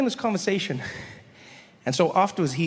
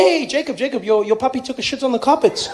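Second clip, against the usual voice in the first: loud, raised-pitch calling out; mock complaint; 4 semitones higher, 5 dB louder than usual. Guests telling Jacob about his puppy, mock dismay. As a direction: flag him down in mock dismay.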